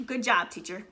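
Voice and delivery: dry mock praise; sarcastic praise. Real, not acted. Mom mocking the math teacher, dry sarcasm. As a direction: say it like you mean the opposite.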